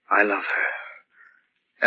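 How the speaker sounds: very slow whispered secret. Acted. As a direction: confide it in a bare whisper. Delirious secret told to nurse.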